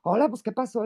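a light hint of a Monterrey norteño accent; northern Mexican accent. Editor from Monterrey greeting her with a light norteño accent. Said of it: "con este acento maravilloso que tienen los del norte".

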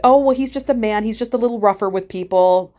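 retold breezy excuse; excuse-making assistant.

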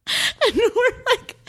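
high, slow, drawn-out like; a stunned viewer's squeak; mock stunned squeak. Real, not acted. Podcaster reacting to the twist with a slow high squeak.

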